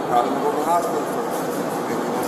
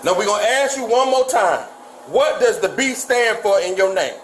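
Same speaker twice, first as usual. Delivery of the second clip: stern scolding; 6 semitones higher than usual. Real, not acted. Officer scolds defiant suspect.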